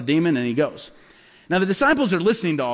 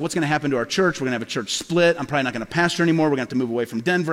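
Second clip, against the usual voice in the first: spiraling worry; 4 semitones lower, faster than usual. Retold or imitated. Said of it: "started getting scared".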